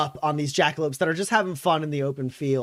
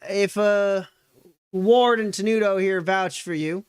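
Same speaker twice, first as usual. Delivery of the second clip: put-on higher, brisk old lady offer; a hint of a practical grandma; old woman hostess; 4 semitones higher than usual. Old woman continues offering rest.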